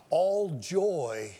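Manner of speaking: "all joy" whispered, breath only; hushed secret-telling "all joy". Shown as a demonstration. Now listen, whispered key phrase.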